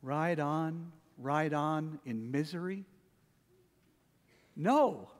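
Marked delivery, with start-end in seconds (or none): 0.0-2.8 soft, dragging, gloomy singing; mournful. Shown as a demonstration. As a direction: sing it like a dirge. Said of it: "Do our praises sound like this?".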